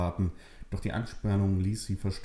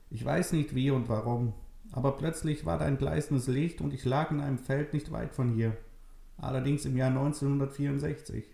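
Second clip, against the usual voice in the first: put-on higher, thin old lady voice; old woman Maria; 6 semitones higher than usual. Old Maria tells Nele it's true, frail old voice. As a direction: speak as a frail old grandmother.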